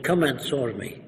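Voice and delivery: imitated Arab immigrant's broken English; lightly put-on Arab dialect; Arabic-accented English. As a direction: mimic an Arabic speaker's halting English. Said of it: "in a dialect".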